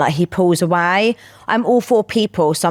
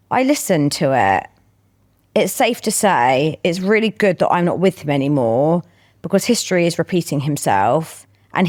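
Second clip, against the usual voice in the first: measured read-aloud with pauses between phrases; confession read-out. Acted. Co-host reads a listener's confession to her friend, measured read-out.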